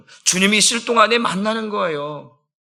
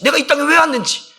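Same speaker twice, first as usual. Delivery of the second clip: normal talking voice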